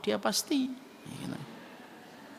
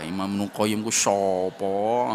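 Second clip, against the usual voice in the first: puzzled listener; 5 semitones lower, 5 dB louder, slower than usual. Pretend. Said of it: "nggak paham dia".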